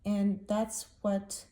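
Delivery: holding back tears; teary. Real, not acted. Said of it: "Sorry that I'm getting so teary about this".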